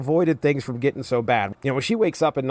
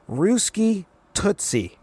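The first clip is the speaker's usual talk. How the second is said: higher, very slow cartoonish flirt; hammed-up Wheeler; 8 semitones higher, much slower than usual. Reviewer repeats Wheeler's line to Linka, higher and slower. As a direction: stretch it out even sillier, mocking. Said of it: "and Wheeler goes".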